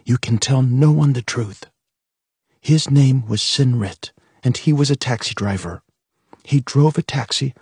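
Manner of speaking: firm, composed instruction; steady the voice, stay strong; mother firmly coaching her children. A narrator's reading. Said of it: "momentary unsteadiness of her voice faded away".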